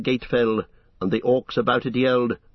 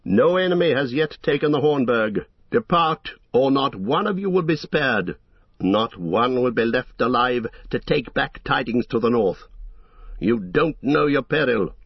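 royal warning; 2 semitones higher than usual. Acted. Aragorn warns the orc host from the gate, commanding. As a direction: speak with royal authority. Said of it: "great a power and royalty".

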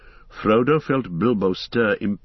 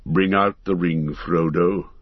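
a hint of a solemn wizard giving a command; solemn Gandalf; 2 semitones lower than usual. Gandalf bids Frodo show the ring, solemnly. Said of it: "said Gandalf solemnly".

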